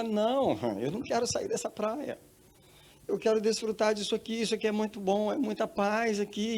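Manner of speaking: high-pitched acted protest; reluctant refusal. Woman telling the voice she wants to stay, high reluctant plea. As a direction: beg to stay, voice pitched well up.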